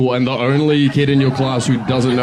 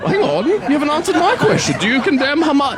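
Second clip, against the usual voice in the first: high, pushy mock interviewer; Piers Morgan. Comic mocking Piers Morgan, high pushy interviewer. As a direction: badger them like a smug TV host.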